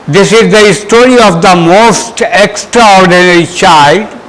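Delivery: measured classroom read-aloud; teacher reading a story out. Shown as a demonstration. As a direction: read carefully to a class, word by word. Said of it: "मैं reading कर रहा हूँ".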